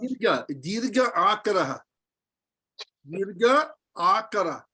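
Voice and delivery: "dirgha akara" named with a stretched a; long a vowel name. Shown as a demonstration. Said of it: "Long R".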